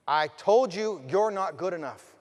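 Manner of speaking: drawn-out bully's put-down; slow down and drive the taunt in; slow, insistent taunt. Acted.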